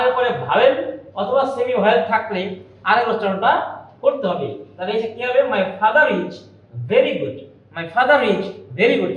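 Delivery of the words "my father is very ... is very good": father runs into is with an audible r; linking R pronounced. Shown as a demonstration. Teacher demonstrating to students, r sounded between father and is. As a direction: join "father is" through a sounded r. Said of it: "এখানে আরটা কিন্তু শোনা যাচ্ছে".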